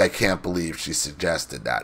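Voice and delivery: disdainful, incredulous, dismissive scoffing tone. Retelling a mother's reaction to a teacher: imitating a scoffing tone. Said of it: "in a very scoffing manner".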